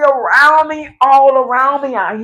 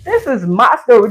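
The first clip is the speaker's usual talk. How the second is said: voicing God; 4 semitones lower, faster than usual. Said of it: "God said".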